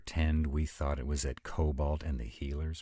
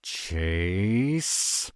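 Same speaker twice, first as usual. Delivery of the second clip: loud, raised, drawn-out name; indignant raised call; scolding call; 5 semitones higher, 8 dB louder than usual. Acted. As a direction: call out in protest at being teased. Scolding call over the video.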